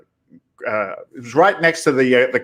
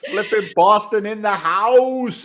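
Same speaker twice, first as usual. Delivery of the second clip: higher, slowed, shouted like an announcer; hype announcer shout; 8 semitones higher than usual. Acted. Guest hypes his own show to the host, announcer shout.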